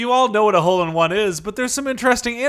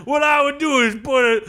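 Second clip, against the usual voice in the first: Cajun coach character. Acted. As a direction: ham up the folksy Southern coach. Coach explains gumbo in character.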